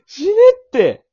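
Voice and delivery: loud, high, ragged comic outburst at his partner; mock furious yelling. Shouting at his partner over a feeble confession, furious mock rage. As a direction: blow up at him for the weak apology, cry-shouting. Partner's weak apology angers him.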